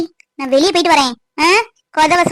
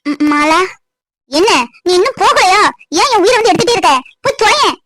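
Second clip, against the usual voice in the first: angry scolding; 3 dB louder than usual. Acted. Wife scolds husband angrily.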